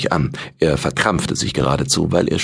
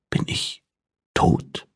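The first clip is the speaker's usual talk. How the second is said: whispered fearful thought; 5 dB quieter, slower than usual. Acted. Character's frightened inner question.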